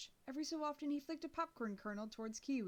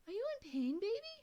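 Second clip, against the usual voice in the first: higher, fussing dog-walker lady; lady rushing to a hurt girl, higher and doting; concerned lady; 11 semitones higher than usual. A narrator's reading. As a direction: coo over her like a worried stranger. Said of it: "She removed one of the earphones".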